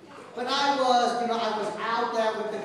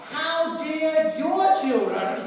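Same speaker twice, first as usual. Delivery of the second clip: slow, a bit louder mock indignation; retold angry woman; 3 semitones higher, 4 dB louder, slower than usual. Angry woman scolding the priest over church kids, mock indignant. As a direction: drag out the outrage like an angry neighbour. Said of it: "a very angry woman".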